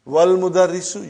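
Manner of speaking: "Wal mudarrisu" run together as one linked phrase; "Wal mudarrisu", wa flowing directly into l; hamza dropped. Shown as a demonstration. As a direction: say "Wal mudarrisu" with no break before the l. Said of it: "you did not pronounce Hamza".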